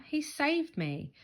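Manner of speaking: high, slow, admiring; little brother praising his hero; grateful. A narrator's reading. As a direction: say it in awe. Peter grateful.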